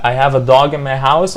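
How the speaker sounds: DOG with a long open vowel in the sentence; corrected long vowel. Shown as a demonstration. Teacher correcting the mistaken sentence, long-vowel DOG. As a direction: stretch DOG open, not "dug". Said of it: "لا".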